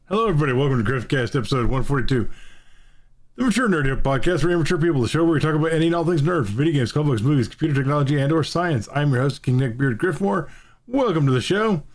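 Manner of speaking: upbeat host show opening; podcast intro. Acted. Host welcoming listeners to the episode.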